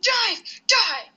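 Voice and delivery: mock battle cry. Attacking enemies in game.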